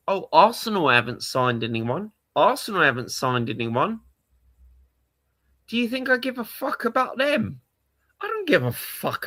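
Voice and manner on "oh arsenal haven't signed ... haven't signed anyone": mocking rival fans. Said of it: "everyone tells me".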